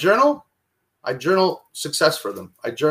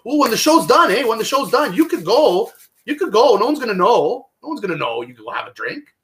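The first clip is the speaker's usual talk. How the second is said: higher, sly coaxing that fades to a hush; tempting voice of addiction; 7 semitones higher than usual. Retold or imitated. Addiction's inner voice tempting him after the show, coaxing then fading. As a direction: whisper temptation like a little devil. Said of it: "that little part of my brain said".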